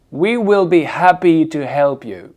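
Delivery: breathed H in "happy" and "help"; aspirated H. Shown as a demonstration. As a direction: model the sentence slowly, sounding both Hs. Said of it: "ils sont aspirés".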